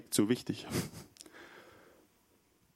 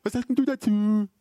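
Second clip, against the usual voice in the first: high, louder challenge; challenging question; 10 semitones higher, 6 dB louder than usual. Retold or imitated. Retold church member challenging him, louder. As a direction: put the question to him pointedly.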